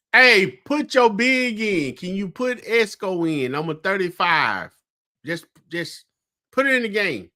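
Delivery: re-enacted holler to the coach, high at first; retold sideline yell. Fan retelling his yell at the coach, mock holler. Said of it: "I finally just one time just yelled out".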